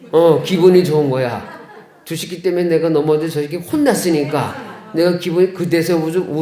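ordinary talk

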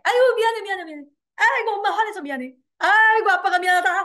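high, loud, breezy mock apology; joking apology. Shown as a demonstration. Parent apologizing to a child, jokey and insincere. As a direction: toss off an over-the-top sorry. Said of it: "뭐 이렇게 장난으로 하지 마시고".

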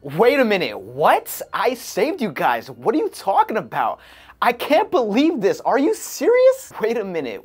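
high, loud and urgent, rising to near yells; urgent disbelief. Shown as a demonstration. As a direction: make it urgent and defiant. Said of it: "delivering that line in different ways".

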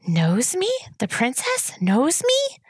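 high, slow, breathless wonder; a humble roach amazed the princess remembers him; awed roach. A narrator's reading. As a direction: marvel as if honored beyond belief. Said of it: "said the roach in awe".

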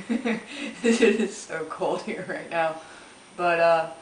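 mouthpiece held at lips; speaking while smoking hookah; talking around hookah mouthpiece. Real, not acted.

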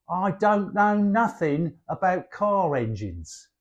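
everyday Cockney, casually said; Cockney double negative. Shown as a demonstration. Showing how Cockneys use double negatives, casual Cockney. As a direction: say it like a London Cockney. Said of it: "So we might say".

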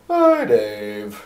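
a lightly put-on cheerful lady's greeting; sing-song church lady. Church lady phoning Dave, light sing-song greeting. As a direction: lightly do the secretary's cracking hello. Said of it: "she had kind of a sing-song voice".

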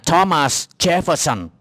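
"Thomas Jefferson" slowly and carefully pronounced; corrected name reading. Shown as a demonstration. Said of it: "Đọc lại nè".

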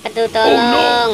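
mock agony, calling for help; pained plea. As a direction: beg for help through the pain. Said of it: "sakit sekali perut aku".

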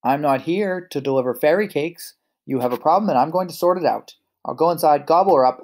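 loud, rising wolf roar. Acted. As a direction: roar it at the piglets. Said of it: "roared the ro-, wolf".

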